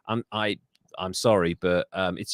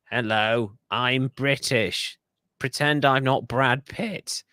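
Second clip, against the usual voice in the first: slow, lightly put-on British accent; a drawn-out, badly faked British accent; mock British accent; slower than usual. Host mocking Brad Pitt in Troy, fake British accent. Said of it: "British accent for, um, Achilles".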